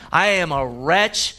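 triumphant shout of praise. Shown as a demonstration. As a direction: proclaim the victory, building then settling. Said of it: "it's a voice of triumph".

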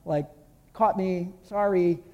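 light, offhand mock apology; a shrugging, half-hearted sorry; flippant sorry. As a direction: toss the sorry off like it's nothing. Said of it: "Worldly sorrow is like".

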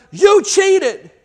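high, loud yell of accusation. Acted. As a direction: protest at full pitch like a wronged boy.

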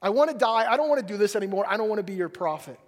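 acted-out protest, pushing the volume; fed-up spiel. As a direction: vent a mock tirade at God. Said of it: "Elijah gives him the spiel".

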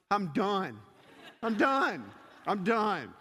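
emphatic, separated declarations of defeat; mock exasperated surrender. JoJo plopping down in the seat, giving up. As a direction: imitate a kid giving up.

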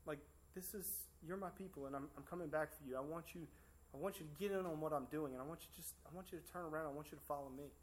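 soft, reassuring words of God; tender God voice. Retold or imitated. God promising his people, soft and tender. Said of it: "but God was like".

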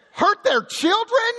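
high, drawn-out mock plea; vengeful prayer. Preacher imitates David asking God for revenge, slow and hammed-up. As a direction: stretch the request out, pitch way up.

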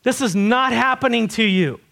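insistent protest, voice lifted; determined refusal. Retold or imitated. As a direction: put your foot down firmly. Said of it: "Peter was totally determined".

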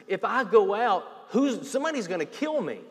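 fearful Cain. Retold or imitated. Cain's fearful reply voiced.

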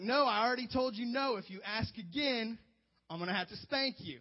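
loud high warning, slowing down; father threatening a spanking; stern dad. Retold or imitated. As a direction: lay down the final warning.

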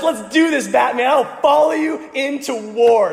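high, loud eager sidekick; rally behind the hero with gung-ho energy; Robin. Acted. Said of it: "Robin says".

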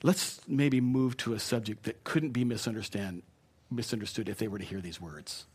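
gentle, tactful redirect; softly steer the talk elsewhere; sensitive. Shown as a demonstration. Preacher demonstrates a sensitive way to stop gossip, tactful and gentle. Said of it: "here's the sensitive one".

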